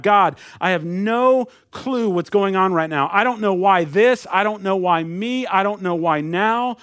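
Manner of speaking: a believer praying in the midst of a trial, pleading; heartfelt prayer. Acted. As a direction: cry out to God for help, earnest but not overdone. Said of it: "It's us praying there".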